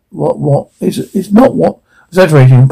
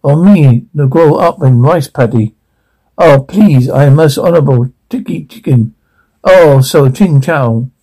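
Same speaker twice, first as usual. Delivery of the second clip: heavy stereotyped Asian accent, put on to mock; a crude mock Asian accent to make a point; exaggerated mock Asian accent, played for offence. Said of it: "in a heavy accent".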